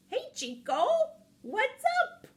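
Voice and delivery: high, loud cartoon greeting; excited high-pitched shout to a pal; calling out. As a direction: holler a hello, jumping up high on the last words. Character calls out to his friend.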